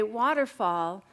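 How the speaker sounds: slow drawn-out call word; kindergarten teacher voice. Shown as a demonstration. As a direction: call it out to the class. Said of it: "I'm gonna say".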